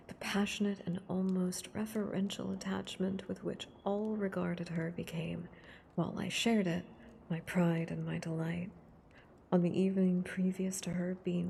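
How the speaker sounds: hushed, close reading of a novel. Acted. Streamer reading Frankenstein aloud to ASMR viewers, hushed and close.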